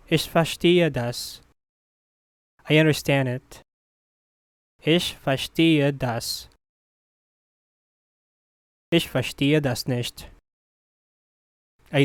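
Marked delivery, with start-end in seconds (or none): 4.8-6.5 each word clearly set apart. Shown as a demonstration. Teacher repeats slowly for learners.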